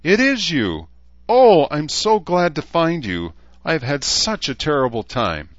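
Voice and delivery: high, gushing unicorn voice; high and loud, easing off toward the end; squeaky unicorn. A narrator's reading. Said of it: "the unicorn squeaked".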